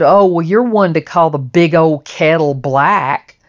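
lashing out. Retold or imitated. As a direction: sneer it, calling him a hypocrite. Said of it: "started lashing at him".

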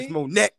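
correcting a friend, insisting on Monette. Real, not acted. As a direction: insist on Monette, a little exasperated. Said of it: "there's no apostrophe".

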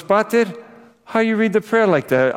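high-pitched, affronted churchgoer questioning the priest; acting out an indignant husband; indignant protest. Acted protest of husband at confession.

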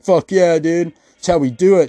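hammed-up tweaker boasting; mock bragging. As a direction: brag about the scam proudly. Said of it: "they're like".

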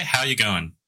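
natural Australian accent, easy delivery. Shown as a demonstration. Host showing a friend how to say it, natural Australian accent. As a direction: model it in everyday Aussie. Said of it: "just say, just say".

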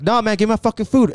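high-pitched mock protest; imitating a heated objection; retold angry demand. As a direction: act out an indignant customer demanding his food. Acted quarrel, man demands food.

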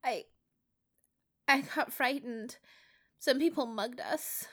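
put-on high, halting, scared boy's voice; a shaken kid telling the officers; frightened boy. A narrator's reading. Peter tells the officers, high and frightened.

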